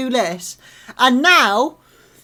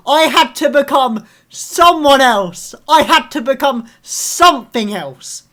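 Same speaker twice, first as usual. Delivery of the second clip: mocking the hero; 2 semitones higher, 7 dB louder than usual. Fan mocking Oliver's famous line, mild mock drama. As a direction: throw his line back at him, mockingly. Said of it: "where this man throws a fit".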